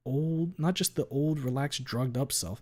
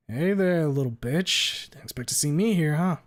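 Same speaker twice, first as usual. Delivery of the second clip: higher, louder mocking greeting; taunting; 5 semitones higher, 5 dB louder than usual. A narrator's reading. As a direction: sneer it out at him. Trish taunting the narrator.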